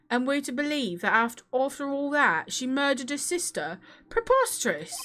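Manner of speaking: marbles in mouth prosecutor voice; rounded, mushy mouth full of marbles. Acted. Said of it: "when I do Edward's voice, it's like my mouth is full of marbles".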